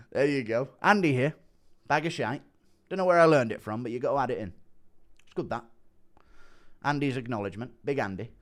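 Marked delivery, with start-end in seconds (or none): 0.8-2.4 lightly mimicked catchphrase; terse fighter impersonation; Andy Aspinall impression. Streamer echoing fighter's catchphrase, lightly impersonated. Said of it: "has heard my Andy Aspinall impression". 5.2-5.6 soft, lightly mimicked approval; quiet terse impersonation; Andy Aspinall impression. Streamer trying fighter's catchphrase, soft impersonation. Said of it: "has heard my Andy Aspinall impression".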